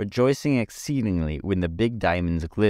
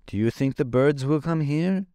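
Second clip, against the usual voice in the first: higher, anxious pumpkin voice; distressed; 7 semitones higher than usual. A narrator's reading. Jack frightened of the birds, anxious question. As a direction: ask it in worried fear. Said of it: "asked Jack, much distressed".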